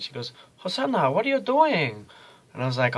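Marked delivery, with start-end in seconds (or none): 0.6-2.1 high mock Asian accent, teacher's surprise; lightly put-on Asian-accented teacher voice; a teacher startled, done in a high Asian accent; imitating Asian accent. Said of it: "she's an Asian lady with a strong accent".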